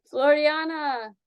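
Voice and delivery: stammering sister. Acted. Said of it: "Missus Fenimore stammered".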